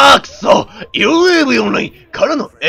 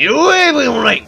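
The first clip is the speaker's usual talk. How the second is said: ユーエーブイオンライン said a bit higher and bolder, stressing ユー; manly callout; 4 semitones higher than usual. Shown as a demonstration. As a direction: call out ユーエーブイオンライン like a man. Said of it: "こうだ、分かったか". (男らしく張った声でユーエーブイオンライン)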